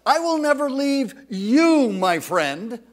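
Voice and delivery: loud preacherly voice of God; voicing the Lord. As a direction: speak as God reassuring a friend. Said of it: "he's saying to us".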